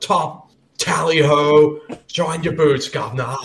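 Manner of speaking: hammed-up British hail, drawn out; British accent. Shown as a demonstration. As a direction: put on a cartoon British accent. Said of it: "this is me doing a British accent".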